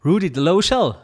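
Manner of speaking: loud, high, hammed-up English accent on "Dolezal"; englische Aussprache. Shown as a demonstration. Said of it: "Wie spricht man denn im Englischen aus?". („Dolezal“ übertrieben englisch ausgesprochen, De-lo-schal)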